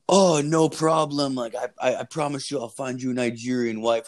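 lightly imitated obliging caller; mock-eager reassurance; eager scam caller. Voices the scammer's eager promise.

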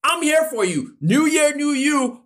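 bright, high mock-cheer of a friend; friend's hammed-up pep talk; cheery supportive friend. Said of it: "They're gonna say".

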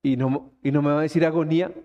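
low, quick, half-offended friend; a friend mildly hurt by the change; lightly imitated hurt friend. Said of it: "me volteó a mirar como". (amigo dolido, voz baja y rápida)

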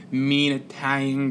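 lightly imitated Boston tough-guy accent; a hint of Italian-American Boston guy. Describing a cigar-chomping guy from the weekend, light Boston accent. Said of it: "with a Boston accent talking like this".

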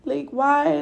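high pleading cry; retold grief, a high broken plea; crying out why. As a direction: beg her mother for an answer through tears. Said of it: "I remember just being like".

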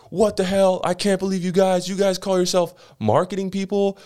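high, indignant what the hell; hammed-up boss raging in group chat; mock outrage. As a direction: play the blaming boss, incredulous.

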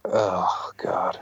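a breathless whispered "Oh". Real, not acted. Comic hears his heckler video came up, a whispered oh. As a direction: drop to a whisper of dread.

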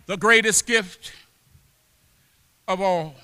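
soft, low, broken by long pauses; hushed preaching. Real, not acted. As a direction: let it sink in quietly, phrase by phrase. Hushed repeat after the climax.

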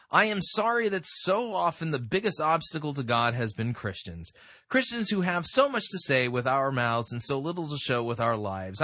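measured, emphatic article reading; reading aloud. Acted. Host reading a writer's confession to listeners, read-aloud voice. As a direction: read the confession out with lifted stresses.

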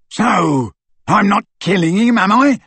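high, loud defiant retort; yelling. A narrator's reading. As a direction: yell back at your leader, rising. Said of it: "yelled Crabbe".

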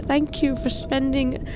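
slow, high drawn-out whale voice. Pretend. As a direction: speak slowly like a gentle whale. Voicing the whale's farewell.

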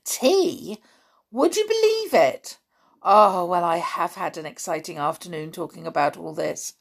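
a lightly voiced child, bursting with eagerness; eager boy wishing for adventure; excited child. Child pleading with friends about hunting, lightly excited.

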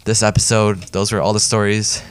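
a little winded from talking; short of breath after a long read. Real, not acted. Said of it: "Oh, I'm already out of breath".

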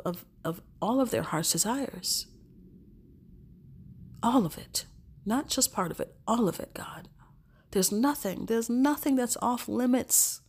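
earnest spoken prayer to God. Real, not acted. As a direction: pray it sincerely, unhurried. Prays aloud to God.

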